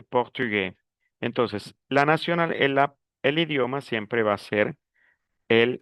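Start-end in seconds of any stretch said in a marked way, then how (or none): 0.0-0.7 "portugués" ending on an open vowel, S silent; without the final S. Shown as a demonstration. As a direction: drop the S at the end of "portugués". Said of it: "sin la S". ("portugués" a la francesa, sin la S)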